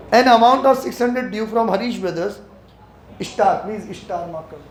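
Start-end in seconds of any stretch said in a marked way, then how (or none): 0.1-2.3 very slow, deliberate reading aloud; slow dictation. Shown as a demonstration. Teacher reading the accounting question to the class, very slowly. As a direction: read the question out word by word.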